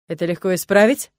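smirking. Acted. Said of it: "хмыкает муж".

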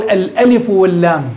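الألف واللام as two full letter names; name each letter, الألف then واللام; spelt by letter names. Shown as a demonstration. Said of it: "كيف ستلفظ بها". (نطق الألف واللام بأسماء الحروف)

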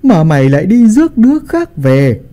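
put-on high, irate old patriarch berating his son; angry scolding. A narrator's reading. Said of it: "hầm hầm sắc mặt mà đập bàn quát tháo".

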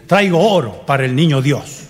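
slow, careful line delivery; mild solemn recital. Shown as a demonstration. Director teaching the kids their lines, slow recital. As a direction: recite it like a kid in a play. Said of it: "tenés que llegar al pesebre, mirarlo al niño y decir".

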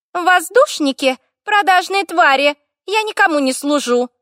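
high, grating, indignant little fire spirit; creaky nasty elemental. A narrator's reading. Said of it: "такой же скрипучий и ужасно противный". (скрипучий противный голос, с возмущением)

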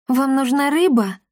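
can't believe it; amazed question. Acted. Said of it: "изумлённо спросила Дарина". (изумлённо, с недоверием)

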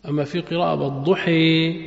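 والضحى with the final vowel tilted toward e, imala style. Shown as a demonstration. Teacher demonstrating imala to students. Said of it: "بميلوا".

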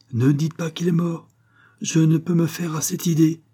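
high-pitched, desperate denial; distressed protest. A narrator's reading. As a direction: plead against accepting the death. Woman cannot accept the death.

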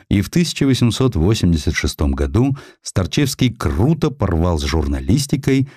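ordinary delivery

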